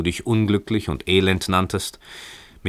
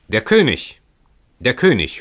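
higher, louder cry of a crowd; 6 semitones higher, 5 dB louder than usual. A narrator's reading. Street crowd announcing the king, excited loud cry. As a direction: call it out in two bursts. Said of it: "das laute Geschrei".

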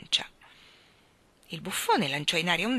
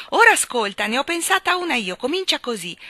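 eager; 7 semitones higher, 7 dB louder than usual. Acted. Eager king announces his song.

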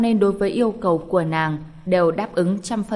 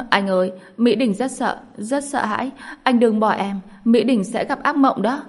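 like about to cry; 4 semitones higher than usual. Acted. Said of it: "nói như muốn khóc".

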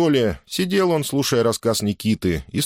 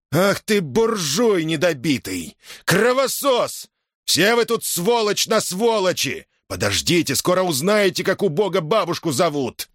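much higher, slow hammered insults; furious outburst; 10 semitones higher than usual. A narrator's reading. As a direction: spit out each insult in rage. Nikita lunges at Innokenty's throat.

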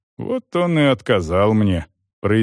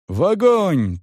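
higher sharp shout from the crowd; crowd yell; 7 semitones higher, slower than usual. A narrator's reading. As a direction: cry out for the burning. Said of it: "тут же заорал кто-то".

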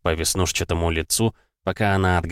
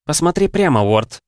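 brisk order; 8 semitones higher, 4 dB louder than usual. Acted. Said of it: "приказала она".

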